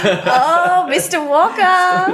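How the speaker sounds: high laughing oh, Mister Walker; laughing at the teacher's harsh report card; laughing groan. Real, not acted. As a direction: laugh out the name in disbelief. Reacting to teacher's verdict.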